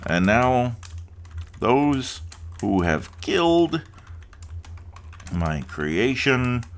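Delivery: high, slow, pompous goblin chief; goblin leader. Acted. Goblin leader threatens the player, high and slow. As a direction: ham up a grandiose goblin boss, drawn out.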